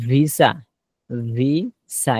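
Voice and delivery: ভিসা started with a clear lip-made v; lip v sound. Shown as a demonstration. Teacher modelling the v of visa for the class. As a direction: make the v of ভিসা at the lips. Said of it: "দুই ঠোঁটের এখান থেকে ভিসা".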